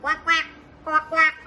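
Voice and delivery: short, punchy pretend quacks; duck quacking. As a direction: quack like a toy duck for small children. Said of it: "Now is the duck".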